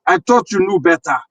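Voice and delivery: put-on West African accent. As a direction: speak in a Nigerian-sounding West African accent. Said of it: "How was my West African accent?".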